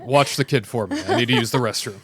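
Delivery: laughing mock Mando; joking Mando asks a favor; playful Mando voice. Acting as Mando.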